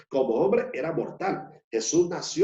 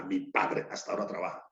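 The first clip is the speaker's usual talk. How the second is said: hushed reading; 6 semitones lower, 6 dB quieter, faster than usual. Shown as a demonstration. Preacher repeats quote hushed.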